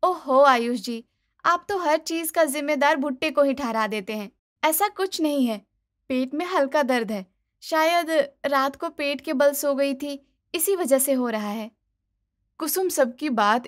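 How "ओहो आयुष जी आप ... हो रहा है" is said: higher, mildly annoyed bahu; dismissive wife. Acted. Wife scolding husband's blame: high, dismissive. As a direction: roll your eyes in the voice.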